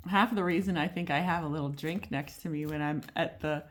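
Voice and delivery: ordinary delivery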